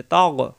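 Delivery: তগ with the G from the end of the throat. Shown as a demonstration. Teacher showing learners the ghain in তগ, throat-end G. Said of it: "কন্ঠনালীর শেষ অংশ থেকে".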